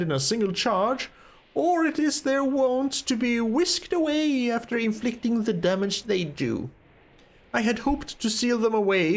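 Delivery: put-on measured, formal old-world wizard reading; a touch of concerned mentor; lightly voiced stern wizard. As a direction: explain gravely as a learned master.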